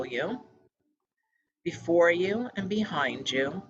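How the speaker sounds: measured meditation-guide voice with pauses between phrases; calm, evenly paced meditation leading; guided meditation. Real, not acted. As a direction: guide listeners gently, phrase by phrase. Leads a meditation.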